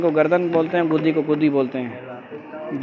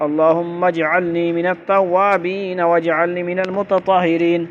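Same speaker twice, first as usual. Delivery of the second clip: slow, drawn-out recitation of a dua; Arabic supplication; slower than usual. Shown as a demonstration. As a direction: recite it slowly for pupils to learn, long vowels held.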